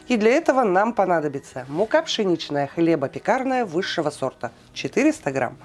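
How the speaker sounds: ordinary talk, nothing marked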